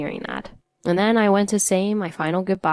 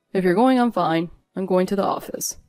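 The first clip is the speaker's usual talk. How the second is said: spitting words out. Acted. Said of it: "as if he was spitting his words out".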